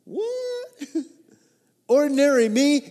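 can't believe he's chosen; disbelieving ordinary me; incredulous. Acted. Peter's astonished reply.

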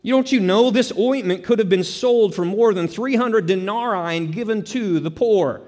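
indignant critics. Retold or imitated. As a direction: voice the critics' indignation over the wasted ointment. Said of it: "They asked the question".

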